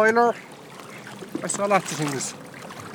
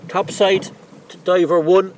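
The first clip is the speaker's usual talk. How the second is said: loud radio call to a diver; diver comms; 5 semitones higher, 4 dB louder than usual. Real, not acted. Boat calls diver over radio.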